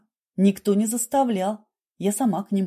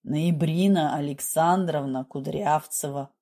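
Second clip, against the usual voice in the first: lower, even reading of a name; reading aloud, resigned; 4 semitones lower than usual. A narrator's reading. Girl reading her new name from the passport, resignedly. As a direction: read it out as if trying it on. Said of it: "прочитала вслух, словно примиряясь".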